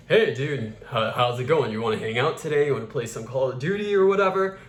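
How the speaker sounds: quick, casual masculine delivery; concise, masculinized speech; male voice. Shown as a demonstration. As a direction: run it together like a guy asking a buddy. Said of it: "in a male voice".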